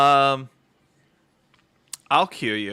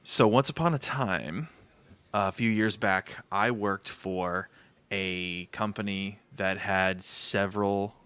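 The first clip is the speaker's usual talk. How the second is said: story time voice. Acted. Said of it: "the speaker is gonna go into his story time voice".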